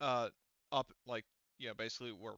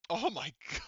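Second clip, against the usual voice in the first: laughing out loud; 6 semitones higher, 6 dB louder than usual. Real, not acted. Laughing at a surprising game event.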